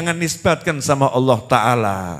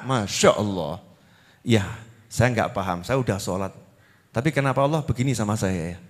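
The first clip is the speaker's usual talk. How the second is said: much softer and lower, sighing complaint; mock lament; 10 semitones lower, 7 dB quieter than usual. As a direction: whine quietly like someone hurt by God. Imitating a complaining worshipper. (keluhan lirih dan pelan, pura-pura mengeluh)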